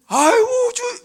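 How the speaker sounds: high, loud mock wail to the Lord; mock wailing cry. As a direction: imitate a mother crying out loud in church. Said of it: "막 소리 내서 막 우시는 거예요".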